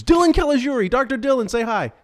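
big booming game-show intro; announcer voice. Acted. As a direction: announce him like a showman. Host's big announcer-style introduction.

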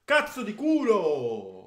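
loud, slow drawn-out swearing; frustrated cursing. Real, not acted. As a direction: swear at the missed chance. Cursing at a near miss.

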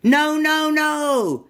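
high, loud, fed-up no no no; exasperated monkey cry. Acted. Little monkey crying out at butterfly's mistake, high and loud. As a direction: wail it in frustration. Monkey protests wrong animal.

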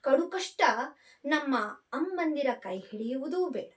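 measured, heartfelt storytelling read; story narration. A narrator's reading. Narrator reading a mother's last letter to her son, tender storytelling.

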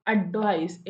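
അഡ്വൈസ് as a stress example; stressed syllable demo. Shown as a demonstration. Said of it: "അവിടെ stress ആവുന്നത്".

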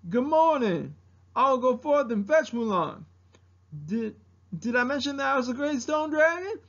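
hesitant bluff turning grand; Mushu. Acted. Dragon pretending to be great stone dragon, bluffing impersonation. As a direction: pose as someone mighty, pitch lifting. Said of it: "doing an impersonation of Mushu".

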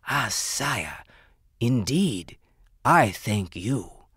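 slow, humble jeweler voice; bow and thank him; formally addressing royalty. Acted.

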